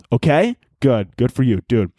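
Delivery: talking with a mouth full of foam; foamy mouth. Real, not acted. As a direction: speak right after a big sip of drink. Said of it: "I'm drinking a lot here".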